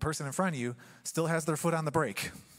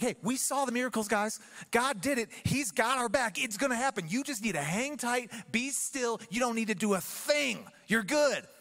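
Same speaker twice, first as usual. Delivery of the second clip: casual Moses; 5 semitones higher than usual. Retold or imitated. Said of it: "Moses is like".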